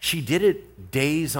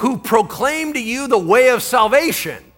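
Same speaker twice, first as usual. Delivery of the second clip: high, loud yelling. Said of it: "She's yelling it".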